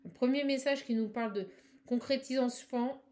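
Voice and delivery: slightly rushed delivery; speaking fast. Real, not acted. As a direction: hurry through it, stumbling and correcting. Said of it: "Excusez-moi, je parle vite". (débit un peu précipité)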